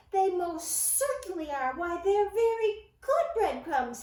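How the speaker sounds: stubborn little mouse; insisting. A narrator's reading. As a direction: press the point hard. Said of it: "he insisted".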